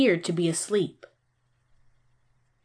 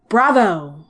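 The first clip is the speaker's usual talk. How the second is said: shout; 4 dB louder than usual. Acted. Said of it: "shouted Vorche".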